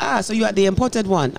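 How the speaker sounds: lightly mimicked Nigerian speaker; imitated Nigerian accent. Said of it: "Nigerians would just say".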